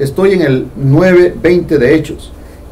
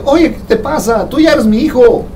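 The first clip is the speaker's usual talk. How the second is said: raised-pitch fatherly voice, lightly voiced; God speaking; 6 semitones higher than usual. God tells a child who shouts to talk normally. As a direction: gently chide a fearful child. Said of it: "y dice".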